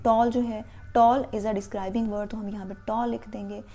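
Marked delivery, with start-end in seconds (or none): 1.0-2.3 very slow, each word spaced; slow teacher dictation of a rule. Shown as a demonstration. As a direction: dictate it so pupils can write.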